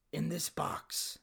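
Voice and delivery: soft, halting, serious delivery; solemn farewell. Acted. Son leaving a box for Dad and Mom, solemn. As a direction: hand over a keepsake gravely and softly.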